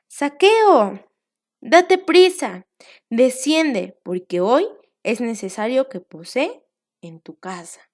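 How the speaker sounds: calling out. Acted. Teacher voicing Jesus calling up to Zaqueo, loud call. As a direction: call him down from the tree.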